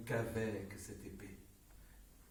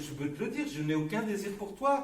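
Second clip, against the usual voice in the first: louder, indignant protest; angry; 13 semitones higher, 11 dB louder than usual. Real, not acted. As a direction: defend yourself angrily. Heated argument.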